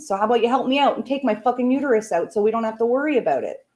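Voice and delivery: insistent, worked-up rant; real exasperated venting; ranty. Real, not acted. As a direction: argue the point emphatically, building to a rush. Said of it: "I'm getting ranty".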